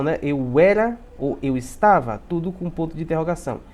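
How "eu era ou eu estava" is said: "era" and "estava" lifted as drawn-out questions; entonação de pergunta. Shown as a demonstration. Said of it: "vai ser com entonação". ("era" e "estava" com entonação de pergunta, devagar)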